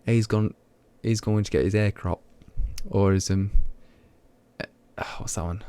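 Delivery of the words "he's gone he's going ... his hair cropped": local British accent with the h dropped in "hair"; own regional accent. Shown as a demonstration. Streamer showing how locals say haircut, regional accent. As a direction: say "hair cropped" in broad dialect, h-less. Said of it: "is how you, how we just say it".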